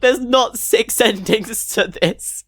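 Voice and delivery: laughing through the words in disbelief; real laughing disbelief. Real, not acted. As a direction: laugh it out, can't believe it. Disbelief at ending count.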